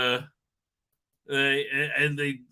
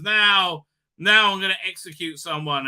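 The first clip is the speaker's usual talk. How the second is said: mock villain threat; 3 semitones higher, 4 dB louder than usual. Villain threatens to execute crew.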